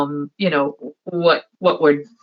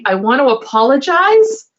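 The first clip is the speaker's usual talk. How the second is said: laughing apology; 11 semitones higher than usual. Retold or imitated. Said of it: "And I said".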